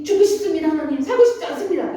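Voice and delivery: acted outburst of despair, pitch jumping up; protesting to God. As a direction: cry out to God as Job at the limit. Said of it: "그럼에도 하나님께 항변을 합니다".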